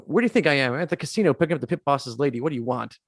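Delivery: mildly annoyed retort, brisk delivery; imitating an upset man snapping back lightly; Donnie Ostricki. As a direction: act a touch put out. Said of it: "he's upset and just annoyed by this".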